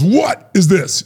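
slow, pointed dad holding up the salt; slow, mocking gotcha; dry dad. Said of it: "reaches right in front of my face and goes".

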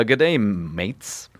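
drawn-out, slow try at Australian; attempted Australian accent. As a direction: have a half-hearted go at Australian. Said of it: "I can't do an Australian accent".

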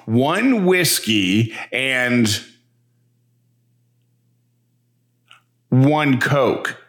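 "One whiskey and" slow, long pause, then "one Coke"; long pause before the punchline. Acted. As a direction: hold the gap after "and", then land "one Coke". Bear orders, long pause.

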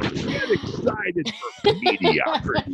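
high, slow mock excitement, laughing; sarcastic hype. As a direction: sell it with a laugh. Sarcastic hype about bad team.

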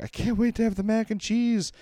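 high-pitched imitation of an eager kid; light, high, excited child voice; excited daughter. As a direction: mimic a daughter thrilled about food.

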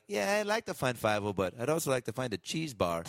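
lightly voiced cartoon mouse; a hint of a squeaky cartoon mouse, offhand; Fievel mouse voice. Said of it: "you sounded like one of the mice in Fievel".

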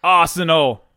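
loud, brighter echo of the team; excited echo. Acted. Cohost echoing each team name, loud and hyped. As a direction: hype the name back.

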